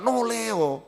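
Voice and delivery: "noleo" said the Javanese way, ending on a soft o; Javanese word. Shown as a demonstration. Preacher slips in the Javanese "noleo" for "noleh", quietly. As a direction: give "noleo" its Javanese form, no final h. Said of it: "noleo itu bahasa Jawa".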